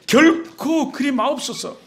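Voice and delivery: drawn-out, emphatic plea; protesting. Acted. Peter holds on to his Lord and objects, protesting. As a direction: press a slow objection on the first word. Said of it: "베드로가 붙들고 항변하여 이르되".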